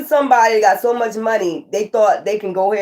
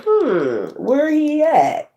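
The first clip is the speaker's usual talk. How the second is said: Divine searching; 6 semitones higher, much slower than usual. Retold or imitated. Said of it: "Divine was like".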